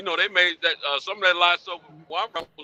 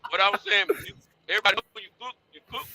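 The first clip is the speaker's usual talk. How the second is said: talking through a mouthful of chips; words round a bite of chips; mouth full; 4 semitones higher, 3 dB louder, faster than usual. Real, not acted. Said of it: "I got chips in my mouth".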